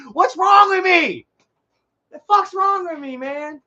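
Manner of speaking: high-pitched exasperated cry; loud self-mocking outburst. Real, not acted. Laughing at his own sad stories, loud self-mockery. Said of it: "Oh, I'm being loud".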